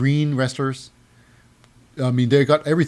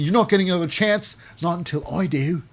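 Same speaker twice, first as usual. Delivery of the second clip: imitated Australian accent; lightly mimicked Australian accent; 4 semitones higher than usual. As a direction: put on a touch of Australian. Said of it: "she got into Australian accent then".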